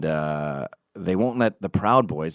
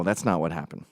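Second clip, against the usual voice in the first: ordinary talk, nothing marked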